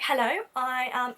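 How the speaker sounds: slow, lightly put-on posh greeting; a hint of posh English formality; posh manager. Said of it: "he's very posh".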